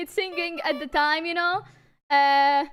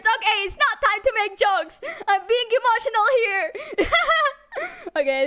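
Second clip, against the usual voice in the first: louder, teary laughter mixed with sobs; real crying laughter, fighting to stop; laughing and crying; 6 semitones higher, 4 dB louder than usual. Real, not acted. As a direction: laugh it off while still crying. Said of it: "I will stop crying".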